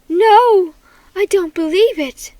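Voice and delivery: loud, high cry of disbelief; crying out in shock. A narrator's reading. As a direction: wail it out in dismay. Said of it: "I heard Mom cry out".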